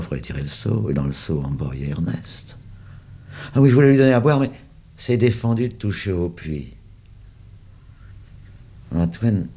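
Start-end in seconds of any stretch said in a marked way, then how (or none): 3.5-6.8 higher, louder, caught-out backpedal; flustered excuse. A narrator's reading. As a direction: cover the gaffe in a hurry. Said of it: "il s'aperçoit de sa gaffe".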